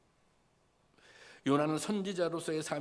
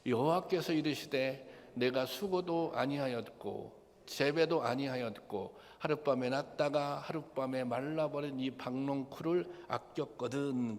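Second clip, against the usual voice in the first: unison scripture reading. Shown as a demonstration. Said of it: "다 같이 보겠습니다. 이 말씀은 시작". (회중과 함께 천천히 봉독하는 목소리)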